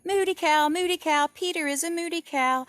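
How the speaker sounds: high, loud singsong taunt; taunting shout. Acted. Sister Daisy teasing Peter, loud high taunt. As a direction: chant it like a bratty little sister. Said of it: "She started shouting".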